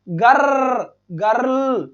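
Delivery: "गर्ल" with the R stretched and rolled; teacher's exaggerated rolling "गर्ल". Shown as a demonstration. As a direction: draw out the R inside "गर्ल". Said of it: "गर्ल में अर्र".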